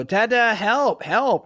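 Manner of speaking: put-on high, light toddler plea; imitating little daughter. Toddler daughter asking dad for help, high and pleading. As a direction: play the small girl begging dad for help.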